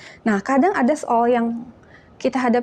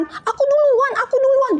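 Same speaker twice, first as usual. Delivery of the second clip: much higher, bratty me-first chant; pushy line-cutter. Acted. Child cutting the ice cream queue, bratty and high. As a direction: shove ahead of everyone, whining. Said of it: "nyerobot antrian".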